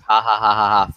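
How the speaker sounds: flat sarcastic ha ha ha, mock amused; fake laugh. Mocking a seller's racist joke with fake laughter. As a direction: pretend to laugh at a bad joke.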